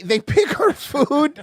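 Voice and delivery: high, slow, put-on condescending voice; mocking patronizing voice. Repeating the hurricane-time remark in a hammed-up patronizing voice. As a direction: ham up the patronizing tone. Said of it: "I swear to God, bro".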